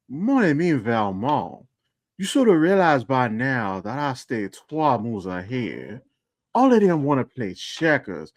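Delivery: put-on slow, lightly French-accented villain voice, hinting at the accent; Leslie Simon character voice. Podcast host performs his Valmont character's voicemail, slow and lightly French-accented. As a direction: savour each line slowly, a schemer gloating. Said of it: "a really good way for me to try to find the voice".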